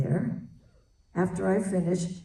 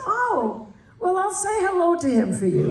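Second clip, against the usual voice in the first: higher, loud, laughing breezy reply; Shirley's breezy reply about speaking with the dead, loud and laughing; 8 semitones higher, 4 dB louder than usual. Retold or imitated. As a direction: toss it off cheerfully. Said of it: "She says".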